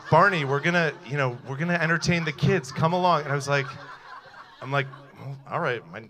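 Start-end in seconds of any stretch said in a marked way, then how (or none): 0.1-3.2 mother coaxing. Retold or imitated. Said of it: "she's like".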